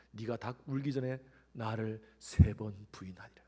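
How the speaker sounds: slow whispered prophecy. Acted. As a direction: whisper the warning slowly. Jesus's words recalled in whisper. (예수님의 말씀을 천천히 속삭이듯)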